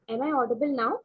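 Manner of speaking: speaking up clearly. Real, not acted. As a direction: raise the voice to be heard. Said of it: "Yes, much better".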